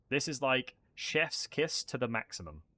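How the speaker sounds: chef's kiss said slowly, savoring each word. Shown as a demonstration. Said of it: "but this is, like, chef's kiss to the maximum".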